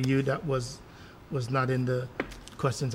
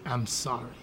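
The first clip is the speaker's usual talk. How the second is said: throwaway sorry; 5 semitones lower, 9 dB quieter, slower than usual. Shown as a demonstration. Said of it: "don't allow our kids to just say".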